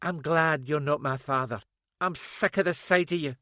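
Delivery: loud high bitter accusation; bitter daughter. A narrator's reading. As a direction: spit the accusations at him.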